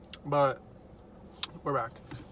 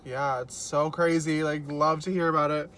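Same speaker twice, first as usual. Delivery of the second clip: feigned interest. Retold or imitated. Replying to someone telling their dream, feigned interest. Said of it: "I'm like".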